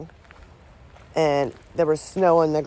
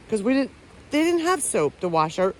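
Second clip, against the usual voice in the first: talking through hiccups; speech broken by a hiccup; 4 semitones higher than usual. Real, not acted. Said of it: "sorry, I got the hiccups".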